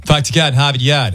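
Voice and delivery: Boston accent. Shown as a demonstration. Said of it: "the Boston accent?".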